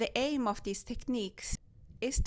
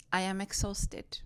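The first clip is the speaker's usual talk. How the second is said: whispering. Retold or imitated. Sleep-deprived mother at 2 am.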